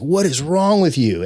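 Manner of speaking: high, drawn-out, retold freak-out. Director reacting to being screamed at, mock freaking out. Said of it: "he's, like, freaking out".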